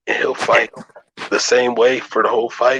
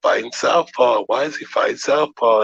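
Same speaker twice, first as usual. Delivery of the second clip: higher-pitched incredulous mock quote; pitched-up imitation of Tim Bradley and the others asking why; mocking commentators; 5 semitones higher than usual. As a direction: parody the pundits' disbelief. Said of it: "they talking shit about Bud".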